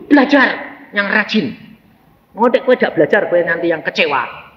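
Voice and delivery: retold nagging, starting high; scolding father. Father telling his child to study hard, retold scolding. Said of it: "marahi dia".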